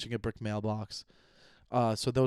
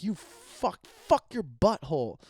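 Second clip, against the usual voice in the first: higher, hammed-up crude jab; mock insult; 6 semitones higher, slower than usual. Bad swearing example, mock crude insult. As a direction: sneer it jokingly. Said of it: "or if you're like".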